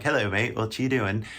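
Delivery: put-on British greeting; British accent. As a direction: imitate a casual British local. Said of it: "I go to England and they're like".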